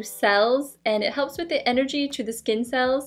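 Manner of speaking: speaking behind rigid mask; muffled behind face shield; through a face mask. Real, not acted. Seen 2: Glowing LED mask held over face throughout; mouth opening visible.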